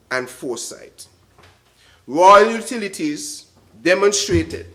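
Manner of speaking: measured, emphatic formal address; formal speech. Acted. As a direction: deliver it like a ceremony speech.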